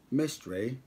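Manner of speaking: "Mystery" as "MIS-tray", rising at the end; British-style pronunciation. Shown as a demonstration. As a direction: try out "Mystery" with a British "-ray" ending. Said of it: "like, you're British".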